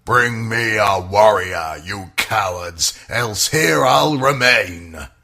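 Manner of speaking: a lightly voiced giant Goliath, slowing at the end; mock giant's challenge, understated; demanding giant. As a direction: taunt the cowards across the valley. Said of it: "He demanded the same thing".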